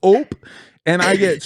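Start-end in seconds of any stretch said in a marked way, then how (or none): 0.0-0.3 short, louder "ope"; startled cop noise. Retold or imitated. Cop reaching for his gun in the joke, startled. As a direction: imitate a cop's little "ope". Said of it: "the noise that the cop makes".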